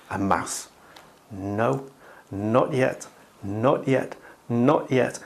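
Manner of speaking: hushed cat waiting. Shown as a demonstration. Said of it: "I'm going to act it out".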